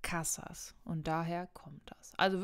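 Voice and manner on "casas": "Casas" with the first syllable CA stressed; stress on penultimate syllable. Shown as a demonstration. Teacher giving a plural example, first syllable of "Casas" stressed. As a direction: lean on CA in "Casas", let -sas drop. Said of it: "werden auf der vorletzten Silbe betont".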